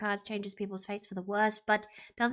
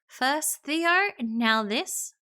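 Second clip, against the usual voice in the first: loud, pitched-up indignation; indignant; 3 semitones higher, 6 dB louder, slower than usual. Acted. Player staring at Nate in disbelief, indignant. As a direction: throw it out as a loud accusation. Acted anger, louder first take.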